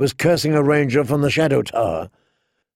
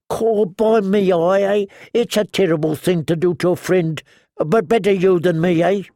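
gloomy Ed; 5 semitones higher than usual. A narrator's reading. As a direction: lament it like a doleful joker. Dolorous Ed speaks.

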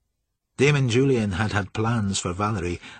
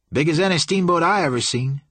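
higher, eager henchman; excited Sour Billy; 6 semitones higher, 4 dB louder than usual. A narrator's reading. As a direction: boast about it eagerly. Excited Billy describes the steamboat.

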